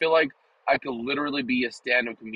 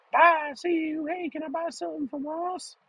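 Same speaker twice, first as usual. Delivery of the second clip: mocking sad worker. Mock sad worker leaving for work.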